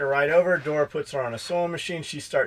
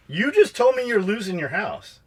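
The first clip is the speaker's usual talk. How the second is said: exasperated rant; 4 semitones higher, 4 dB louder than usual. Real, not acted. Venting to friends about applicants who won't work, exasperated and loud. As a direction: lay out every excuse in frustration.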